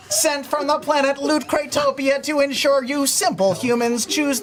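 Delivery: robot voice, stiff and announcer-like; a lightly voiced robot from the future; old speech synthesizer. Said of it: "Sam three thousand".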